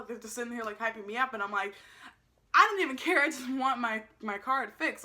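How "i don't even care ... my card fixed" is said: exasperated complaint, easing off; frustrated. Retold or imitated. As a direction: burst out in retold exasperation. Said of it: "frustrated at this point".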